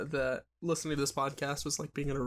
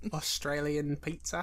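trying Australian, rising at the end; tentative put-on Australian; Australian accent attempt; 3 semitones lower, 4 dB quieter than usual. Shown as a demonstration. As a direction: test the Australian accent like a question. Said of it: "I forgot how to do the Australian accent".

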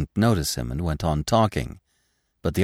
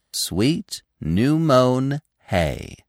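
slow, savouring each word; higher-pitched, drawn-out satisfaction; calm, triumphant; 7 semitones higher, much slower than usual. A narrator's reading. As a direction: repeat it slowly and proudly. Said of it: "Gobo repeated calmly".

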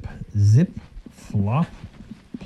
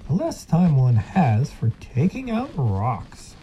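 sly silky fox; 3 semitones higher than usual. Acted. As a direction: lecture him like a sly fox. Fox character speaks.

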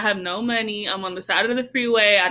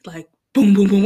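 imitated engine booms; 7 dB louder than usual. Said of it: "engine noise".

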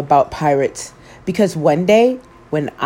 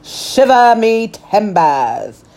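pirate; 3 semitones higher, slower than usual. Acted. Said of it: "the pirate said".

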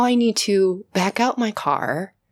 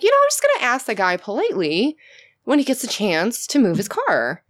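super polite; 2 semitones higher than usual. Retold or imitated. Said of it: "I was super polite".

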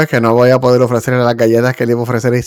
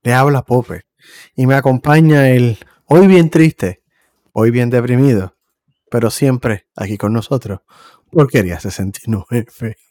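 flight attendant. Acted. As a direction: welcome passengers like a cabin announcement. Podcast intro, host introduces show.

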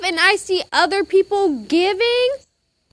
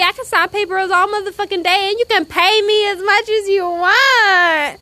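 defiant shout at devil; 4 semitones higher than usual. Real, not acted. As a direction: stand up to him. Defying the devil.

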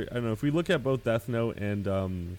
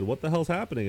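mock bewildered angel; 6 semitones higher than usual. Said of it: "the angels when they kinda all just said".

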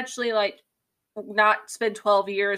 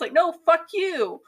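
exasperated rant; 4 semitones higher than usual. Real, not acted. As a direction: tell him off like he's in the room. Ranting at Odysseus in book.

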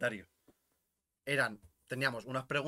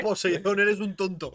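mock yelling; 6 semitones higher, 10 dB louder, slower than usual. Yelling at the sea god.

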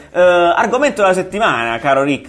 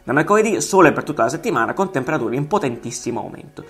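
pompous weatherman character voice; Colonnello Giuliani. Pretend. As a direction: play a hammy TV weather colonel. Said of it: "Signor Giuliani, ci sente?".

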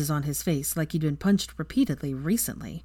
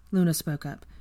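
ordinary delivery

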